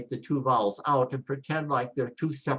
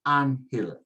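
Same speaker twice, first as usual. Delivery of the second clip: "anhil" with the first syllable stressed; "anhil", weight on AN; stress as marked. Shown as a demonstration. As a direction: punch the opening of "anhil", let the end fall. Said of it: "Do what the accent mark tells you".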